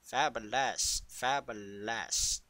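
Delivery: slow, savoured Fabulous; lingering camp delivery; drawn-out fabulous. Pretend. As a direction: stretch out Fabulous. lovingly. Savouring the catchword.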